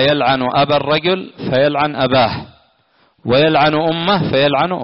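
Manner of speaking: ordinary talk, nothing marked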